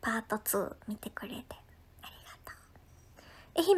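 hushed grateful thank-you; whisper. Real, not acted. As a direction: whisper it warmly.

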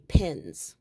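pins, said clearly on its own with falling pitch; careful self-correction on pins; corrected word. Real, not acted. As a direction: say pins as a correction, meaning tacks. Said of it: "P I N".

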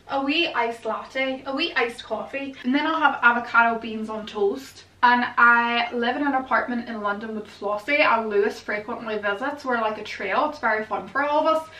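attempted Northern Irish accent; Belfast accent. Shown as a demonstration. Vlogger testing out a Belfast accent for viewers, amateur Northern Irish lilt. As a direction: have a shaky go at a Belfast accent. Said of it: "Can I do a Belfast accent?".

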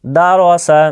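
"দা র সা" in even, unstretched syllables; no drawn-out vowels. Shown as a demonstration. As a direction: say "দা র সা" without dragging any vowel. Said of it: "টানবেন না, কোনো জায়গাতে টান কিন্তু নাই".

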